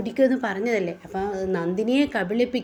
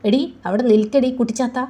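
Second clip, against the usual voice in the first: loud insulting call; angry yell; 3 semitones higher, 5 dB louder than usual. Acted. Nandini angrily stopping Veda in the hall. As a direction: bark at her to stop. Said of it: "ദേഷ്യം പിടിക്കുകയാണ്".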